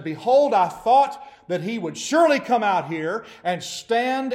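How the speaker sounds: high, loud, furious tirade; raging complaint. Retold or imitated. Naaman storming off from Elisha's servant, raging. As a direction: rant as if insulted. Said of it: "He went away in a rage".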